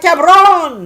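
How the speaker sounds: high, loud call back to a buddy; hollered greeting. Retold or imitated. Woman re-enacting her reply to Ruben, loud holler. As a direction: yell it out to an old friend.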